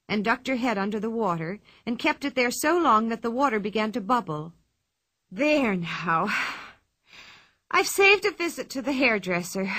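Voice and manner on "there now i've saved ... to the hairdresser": pleased and satisfied; contented. A narrator's reading. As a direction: say it well satisfied. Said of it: "she said contentedly".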